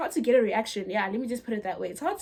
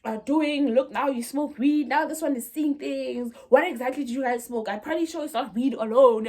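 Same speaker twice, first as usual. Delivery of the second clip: put-on slightly raised scolding of the kids; retold shouting; 3 semitones higher, 3 dB louder than usual. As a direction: imitate a shocked mother telling off teenagers. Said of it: "she's shouting at us".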